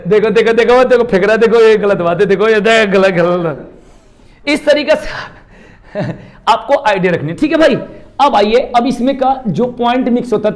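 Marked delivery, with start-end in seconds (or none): 0.1-4.5 scolding. Real, not acted. Teacher scolds a student throwing something.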